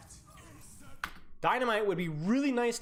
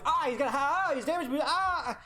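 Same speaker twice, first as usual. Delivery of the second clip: high, loud panicky yelps; hammed-up frantic cries between the words; mock panic; 7 semitones higher, 3 dB louder than usual. Coach voicing a Mercy waiting on a damage boost, mock panic.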